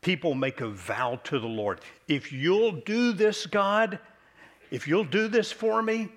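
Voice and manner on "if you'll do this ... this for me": much higher, louder whiny plea, slow at the start; mock pleading. Preacher mocking people who bargain with God, whiny plea. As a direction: beg God like a haggler.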